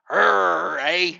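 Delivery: lightly voiced, mock-grumpy Canadian growl; a hint of an angry Canadian, played for laughs; mad Canadian. Trucker mocking Canadians for his viewers, a mild mock-grumpy growl. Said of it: "that's what a mad Canadian sounds like".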